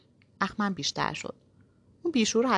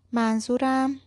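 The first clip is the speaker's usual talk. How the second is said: higher, firmer serious voice; 6 semitones higher, 4 dB louder, much slower than usual. Acted. Girl insisting seriously to the man, firm. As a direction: put on a stern, businesslike tone. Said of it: "لحن جدی به خودم گرفتم".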